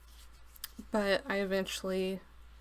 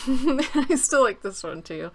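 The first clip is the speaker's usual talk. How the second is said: louder, higher, slower, stressing still; emphatic; 4 semitones higher, 9 dB louder, slower than usual. Real, not acted. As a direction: lean hard on still with delight. Repeats phrase louder, slower.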